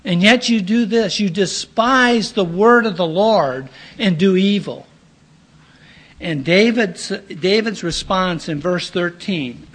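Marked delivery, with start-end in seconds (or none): 0.1-4.9 raised, pressing rebuke of a king; higher, firmer, pleading and accusing at once; stern prophet rebuking. Acted. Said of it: "And then he says".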